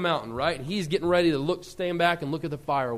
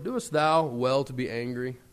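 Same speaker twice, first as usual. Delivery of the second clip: voice of the Lord; 5 semitones lower than usual. Retold or imitated. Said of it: "then said the Lord".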